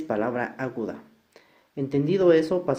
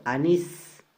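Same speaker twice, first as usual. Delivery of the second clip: "anís" with a firm, held "nís"; final-syllable stress; 2 semitones higher than usual. Shown as a demonstration. Teacher gives an example ending in S, stress on NÍS in "anís". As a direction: lean on the last syllable of "anís". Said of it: "Se tildan todas las palabras agudas".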